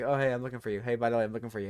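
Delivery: casual, jokey chat message read aloud; silly ha-ha. Retold or imitated. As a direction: toss it off as a silly joke. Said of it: "like, a silly ha-ha".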